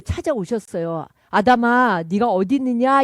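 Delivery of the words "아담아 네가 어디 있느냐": louder, a calling voice. Retold or imitated. God calls out to hiding Adam, louder. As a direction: call out across the garden. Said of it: "이렇게 부르셨어요".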